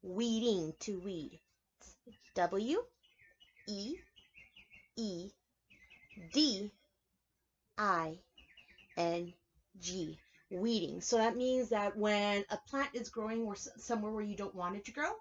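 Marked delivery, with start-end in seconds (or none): 2.3-11.0 each letter slow and separate; spelled out letter by letter. Shown as a demonstration. Preschool teacher spelling a new word, slow. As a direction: spell it out for the kids. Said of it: "Our new word".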